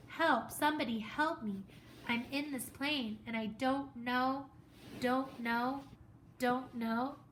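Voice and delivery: put-on a boy screaming for help alone in a plane; panicked screaming. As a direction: scream into the mic in terror. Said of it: "began to scream into the microphone".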